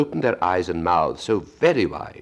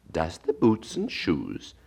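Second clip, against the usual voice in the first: wondering; much slower than usual. Acted. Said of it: "in a wondering tone".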